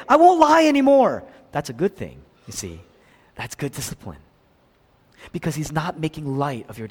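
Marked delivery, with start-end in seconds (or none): 0.1-1.2 high, loud tearful vow; crying promise. Retold or imitated. Preacher voices a crying child promising to stop lying. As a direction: plead it like a sobbing child.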